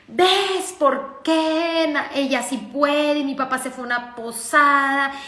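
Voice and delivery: mock aggrieved outcry; complaining out loud. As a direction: lament it aloud, stretching the first words. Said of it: "todo lo decía en voz alta".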